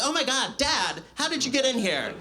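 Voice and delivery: high, shocked squeal with a laugh; mock horrified. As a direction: act caught out by your dad. Horrified at dad in chat.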